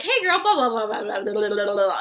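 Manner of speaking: hammed-up bubbly saleswoman gushing; mock peppy spam pitch; mock spam message. Mocking spammy sales message.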